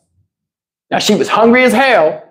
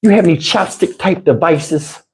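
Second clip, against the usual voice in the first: imitating girlfriend; 5 semitones lower than usual. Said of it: "I couldn't take it".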